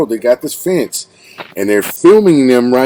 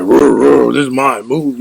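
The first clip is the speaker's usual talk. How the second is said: mock lion growl; 3 semitones higher than usual. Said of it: "they start growling at each other like".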